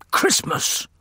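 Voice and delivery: rough, voiceless outburst of disbelief; exclaiming. A narrator's reading. Emerson reacts to talk of Christmas, outraged exclamation. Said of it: "Emerson exclaimed, eyes bulging".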